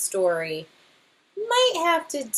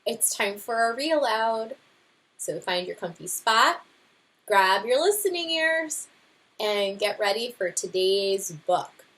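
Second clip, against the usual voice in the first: bright, friendly read-aloud host voice; cheerful teacher welcome; 2 semitones higher than usual. Acted. Teacher greeting her class before a read aloud, friendly. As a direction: invite the kids in gently.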